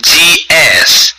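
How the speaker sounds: slow, clear American accent. Real, not acted. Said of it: "I got my American accent on right now".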